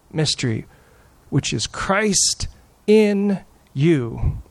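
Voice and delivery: measured, lightly heightened Bible reading; scripture reading. Acted. Pastor reading Colossians aloud to the congregation, in a solemn reading voice. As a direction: read the passage with solemn weight.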